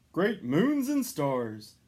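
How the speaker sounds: slow, loud Santa exclaim; hearty exclamation. A narrator's reading. Santa exclaiming at the late hour, slow. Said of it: "sighed Santa".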